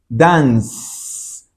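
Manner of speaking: "dance" with the final s held long; voiceless S ending. Shown as a demonstration. Teacher models for students, "dance" ending on a long voiceless s. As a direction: stretch the end of "dance" into a hiss. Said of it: "el sonido es s".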